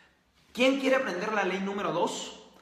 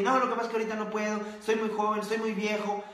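fast, slightly higher mock whine; rushed excuses; 3 semitones higher, faster than usual. Host imitating people who make excuses, fast mock whine. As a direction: rattle off the excuses quickly, lightly mocking.

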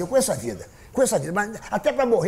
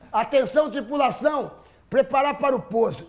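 pilot announcement; 7 semitones higher than usual. Retold or imitated. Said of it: "entrou aquela".

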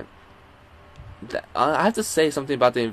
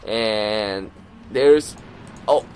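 play-by-play; 3 dB louder than usual. Acted. Live play-by-play of the match.

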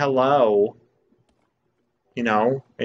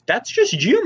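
high squeaky reassurance; 12 semitones higher, 5 dB louder than usual. Real, not acted. Reassuring odd NPC.

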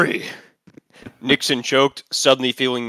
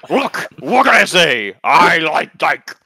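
mock defensive; 2 semitones higher, 9 dB louder, much slower than usual. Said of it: "Nixon defended".

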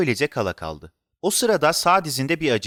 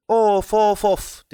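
raised, high groan of frustration; fed up; 7 semitones higher, 4 dB louder, much slower than usual. A narrator's reading. Boy slumped after no answers, exasperated. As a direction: huff out the exasperation. Child fed up, sighing out loud.

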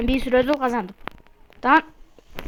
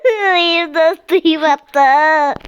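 very slow stretched taunt; drawn-out teasing; 4 dB louder, much slower than usual. Pretend. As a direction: stretch every word to tease.

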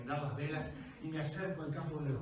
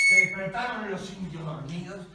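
raised, high-pitched, heated telling; frantic battle narration; 5 semitones higher, 12 dB louder than usual. A narrator's reading. Storyteller describing the night battle, frantic loud narration. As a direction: shout the fight like a chaotic brawl.

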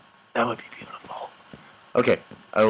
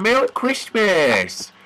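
high, drawn-out festive greeting; cheery holiday call; 5 semitones higher, much slower than usual. Pretend. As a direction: stretch out a merry shout. Calling greeting to absent Alfred.

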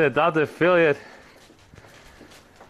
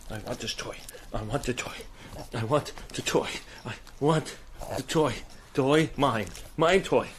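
voicing the dog; 3 semitones lower, 6 dB quieter than usual. Voices the dog wanting its toy.

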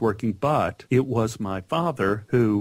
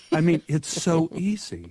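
higher voice, laughing between phrases; amused laughing; 6 semitones higher than usual. Real, not acted. Guest recalling how easy the alphabet seemed, laughing. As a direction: chuckle through it at your own naivety.

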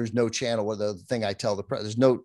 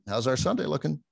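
higher, fake-cheery newscaster line; mock TV anchor phrasing; 6 semitones higher than usual. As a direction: parody how TV people talk. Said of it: "this is the thing T V people do".

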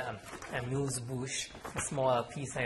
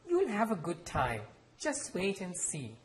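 higher, brightly upbeat promise; cheerful; 6 semitones higher, slower than usual. Acted. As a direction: cheer the boy up with mild cheer. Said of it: "and said cheerfully".

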